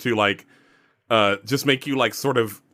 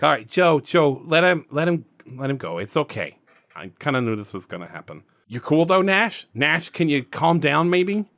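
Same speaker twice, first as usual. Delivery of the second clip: Michael; 3 semitones higher than usual. Acted. GM as Michael asking Joe to let Nash go, slight accent. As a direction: put on just a hint of an accent. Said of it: "got a little bit of an accent".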